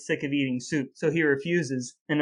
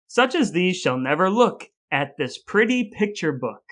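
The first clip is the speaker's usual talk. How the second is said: reading verse aloud. Acted. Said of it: "this introduction says".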